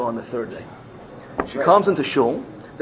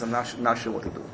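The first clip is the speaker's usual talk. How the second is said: low, soft hesitant musing; hushed indecision; mumbling to himself; 5 semitones lower, 9 dB quieter than usual. Retold or imitated. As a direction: waver quietly to yourself. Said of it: "starts mumbling to himself".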